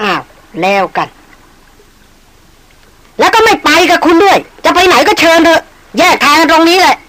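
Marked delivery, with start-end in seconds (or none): 2.3-7.0 high, slow, heated send-off; furious dismissal. Acted. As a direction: tell him to go, seething. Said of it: "อย่างเดือดดาล". (ไล่ไปอย่างเดือดดาล)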